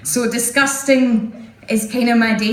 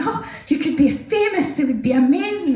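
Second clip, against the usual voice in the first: proud dad; 6 semitones higher than usual. Retold or imitated. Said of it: "he went".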